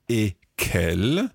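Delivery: slow, word-by-word French dictation; slow teaching. Shown as a demonstration. Teacher introducing the next part to learners, slow and deliberate. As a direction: draw each word out for learners.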